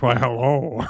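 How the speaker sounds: badly faked sophisticated spy; bad Sean Connery. Hotel guest trying to charm a woman, bad Connery. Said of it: "he tries to do, uh, Sean Connery".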